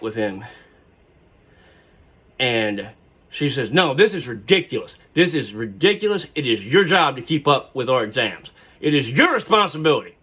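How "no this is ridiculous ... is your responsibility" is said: loud, insistent retort; student yelling at her professor. Retold or imitated. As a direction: hammer the word your. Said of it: "she's seriously yelling at him".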